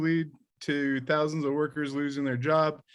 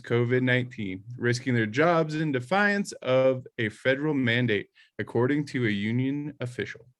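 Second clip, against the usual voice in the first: melodramatic news anchor. Pretend. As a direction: read it like a hammy anchor. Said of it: "melodramatic news anchor voice".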